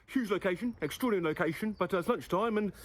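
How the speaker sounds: lightly voiced angry Scottish chef; a hint of a scolding Gordon Ramsay; Gordon Ramsay impression. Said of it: "something Ramsay would do".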